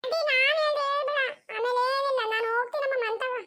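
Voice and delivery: put-on high small-child voice; a child owning up before running home; child Chinnu apologizing to the aunt in a high childish voice; little girl voice. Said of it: "ಏ ಚಿನ್ನು".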